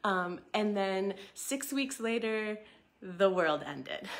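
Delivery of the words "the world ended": wry laugh. Real, not acted. Laughing at lockdown timing.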